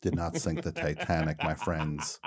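low, hushed mock-grand narration; mock-solemn oration. Host lecturing friends on the Titanic, mock-solemn oration.

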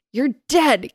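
a touch of theatrical shock; gasped. A narrator's reading. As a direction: gasp it as a stunned character. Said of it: "gasped Press".

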